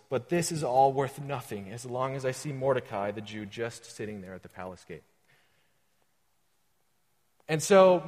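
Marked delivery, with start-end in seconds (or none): 0.1-5.0 whiny voice. Acted. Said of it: "in his best whiny voice".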